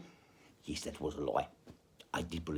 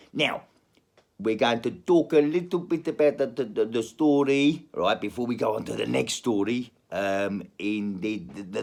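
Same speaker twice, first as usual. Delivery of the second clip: put-on South African accent; comic South African accent; 4 dB louder than usual. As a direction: tell it as a South African storyteller. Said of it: "let's go back to South African".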